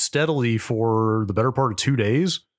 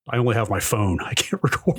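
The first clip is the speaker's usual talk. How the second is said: casual shrug. Retold or imitated. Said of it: "the way I read that was not you saying".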